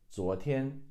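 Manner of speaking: 昨天 rising then high level; teacher puts 昨天 back together; whole word. Shown as a demonstration. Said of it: "second tone ... first tone".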